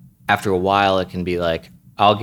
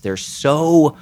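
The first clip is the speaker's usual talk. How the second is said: a higher, self-pitying whine; mock whiny complainer; 5 semitones higher than usual. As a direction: mimic someone moaning that everyone's against them.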